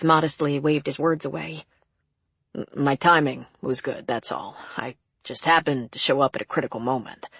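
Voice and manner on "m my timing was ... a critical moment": lightly voiced modest man; modest prison guard. Guard waving praise away before rescued woman's sister, understated modesty. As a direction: play down the praise, pitched a touch lower.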